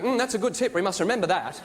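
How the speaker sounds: put-on earnest English accent; English people. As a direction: imitate an English viewer taking note. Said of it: "Every English person in the room".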